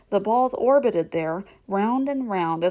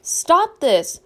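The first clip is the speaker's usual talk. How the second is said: 1 sharp scolding; 8 semitones higher, 8 dB louder than usual. A narrator's reading. Mother scolds children.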